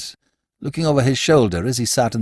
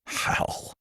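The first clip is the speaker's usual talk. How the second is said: savage demand; 10 dB quieter than usual. A narrator's reading. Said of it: "demanded Bill, savagely".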